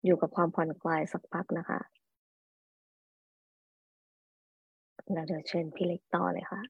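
calm hypnosis induction voice; soft spa whisper. Acted. Leads a relaxation induction.

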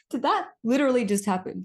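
high, loud incredulous laugh-through; giddy disbelief. Real, not acted. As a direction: ask it cracking up in disbelief. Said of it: "I was just sitting there like".

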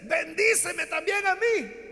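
high, slow, drawn-out crying plea; tearful plea. A narrator's reading. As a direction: stretch out the last begging words through tears. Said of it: "Esaú sigue llorando".

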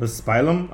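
"Muspelheim" as mus-PIE-lum, questioning; invented pronunciation. Real, not acted. Guest defending his own version, "Muspelheim" as mus-PIE-lum. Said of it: "that's the correct pronunciation".

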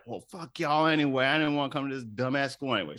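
mock petulant kid, rushed and dismissive; hammed-up brush-off; sore loser. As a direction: toss it off like a sulky teen storming out. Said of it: "the kid is like".

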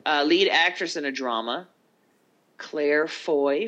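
lightly voiced award announcer. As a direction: announce the nominees grandly. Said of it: "I'm trying to sound like the announcer chick".

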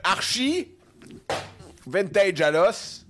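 high, loud laughing words. Real, not acted. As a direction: laugh through it, slow. Big laugh after the sneeze.

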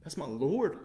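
ordinary talk

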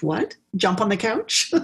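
cheeky rising echo of the rule; defiant kid. Retold or imitated. A mischievous five-year-old mocking the rule, cheeky rising question. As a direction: toss the question back like a kid who will do it anyway.

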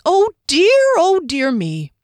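high flustered fretting; muttering. Acted. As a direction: fuss to yourself under the table. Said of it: "the whole time muttering".

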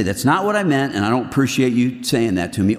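curt, offended reply; defensive. Shown as a demonstration. Answering the critics, defensively offended. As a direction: push back at the critic with an edge. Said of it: "I could take that one of two ways".

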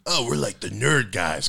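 slow, lightly put-on nerd; mimicked nerd voice. Echoing a friend's mock voice, slow nerd voice. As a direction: imitate a friend's drawn-out nerd impression. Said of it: "'cause that's how nerds talk".

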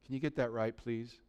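very soft, low murmur; quiet, gentle correction, almost whispered; hushed voice of God nudging him; imitated whisper in the ear. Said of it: "He just whispers in my ear".

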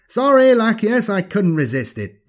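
high, loud, theatrical villain voice; gloating alien villain. Acted. Alien thing mockingly apologizing to Lachius, gloating villain. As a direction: relish the taunt, pitched high and projected.

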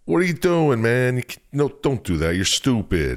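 put-on half-try Tony's accent while scolding someone; a hint of a mobster's accent; attempted Tony accent. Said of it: "Don't try and do the accent".

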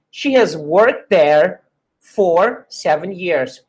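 worked there, the t joined into there; linked worked there. Shown as a demonstration. Teacher showing fast linking, worked there. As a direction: join worked and there with a single t. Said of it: "Mas se você for falar rápido".

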